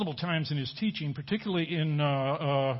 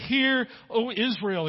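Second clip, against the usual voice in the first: slow, higher call of "Hear, O Israel"; emphatic command; 5 semitones higher, slower than usual. Retold or imitated. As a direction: draw out Hear like a pleading command. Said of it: "It's emphatic. He's commanding".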